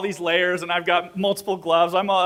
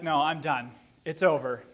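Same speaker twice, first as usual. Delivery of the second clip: mildly defeated, lower pitch; retold defeat; 4 semitones lower, 4 dB quieter than usual. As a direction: give up in a low, subdued voice. Climber sits down and gives up.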